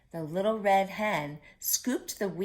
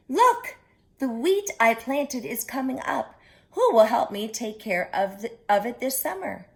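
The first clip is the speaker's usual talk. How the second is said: high, bright cry of delight then a lively question; thrilled the wheat is sprouting; excited hen; 4 semitones higher, 4 dB louder than usual. Acted. Hen showing her friends the sprouts, excited and high.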